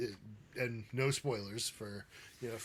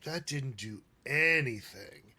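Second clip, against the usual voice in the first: slow, lightly voiced Welsh accent; a hint of a Welsh actor; slower than usual. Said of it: "in the, his Welsh accent".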